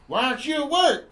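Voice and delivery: mock annoyed boyfriend. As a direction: imitate a nagging boyfriend. Boyfriend confronts her in retelling.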